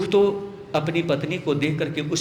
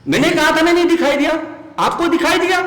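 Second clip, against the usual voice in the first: higher and louder, amused; laughing wife; 10 semitones higher, 5 dB louder, faster than usual. Acted. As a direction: tease back through a laugh. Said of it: "तारा को हंसी छूट गई".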